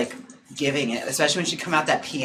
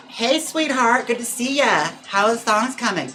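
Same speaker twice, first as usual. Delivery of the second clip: excited greeting; 8 semitones higher, 4 dB louder than usual. Real, not acted.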